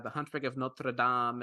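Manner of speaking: Notre Dame with a light French accent, nasal Dame. Shown as a demonstration. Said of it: "I don't know why I gave that an accent. That was in French".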